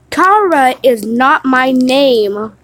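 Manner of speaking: slow, loud refusal; yelled correction. Retold or imitated. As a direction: insist firmly on your own name. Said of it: "I yelled at him".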